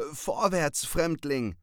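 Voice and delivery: high, loud command. Acted. Cat marching the raven off, high and loud command. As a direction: order him forward grandly. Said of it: "befahl er".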